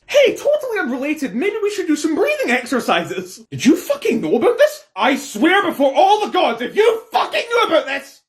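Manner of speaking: high, loud, laughing rage; furious shout. Acted. Monarch yelling at the spy master, loud furious shout. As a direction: yell at the spy master in disbelief. Monarch learns of hidden cases.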